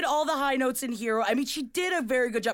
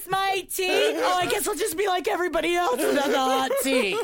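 bratty diva whine, pitched up; mock singer diva whine; 5 semitones higher, 3 dB louder than usual. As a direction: sulk like a spoiled star. Mocking a singer's tea complaint.

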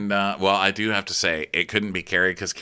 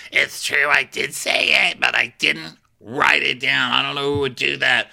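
higher, mildly hammed-up protest; defensive denial; 5 semitones higher than usual. Emmy owns up but denies writing it, defensive. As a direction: deny it in a higher, put-upon voice.

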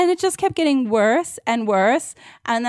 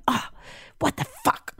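a high, incredulous "what the fuck"; muttered disbelief that jumps up high; exasperated outburst; 8 dB quieter than usual. Retold or imitated. Walking down the street, reacting to a podcast in incredulous outrage. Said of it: "I'm going".

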